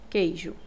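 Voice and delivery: queijo said with a plain k, no U heard; silent U. Shown as a demonstration. Teacher repeats queijo as an example, U silent. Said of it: "Eu não escuto esse U".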